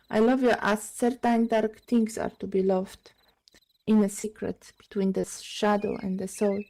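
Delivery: soft, measured love sonnet recitation; poem reading. Acted. Reader shares a Neruda love sonnet, softly recited. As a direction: read it quietly, phrase by phrase.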